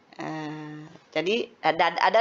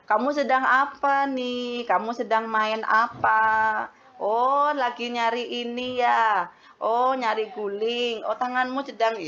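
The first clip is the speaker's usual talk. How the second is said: put-on gentle baby talk. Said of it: "kita ngobrol, ngomong aja".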